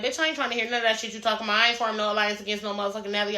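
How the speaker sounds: quick Southern country retort, lightly imitated; Southern country accent. Retelling a castmate refusing an alliance, light Southern country accent. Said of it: "with that southern ass accent".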